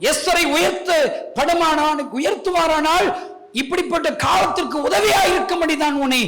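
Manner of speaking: loud, high impassioned shouting; fervent pulpit shout; full-force preaching. Real, not acted. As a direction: cry it out to the whole congregation.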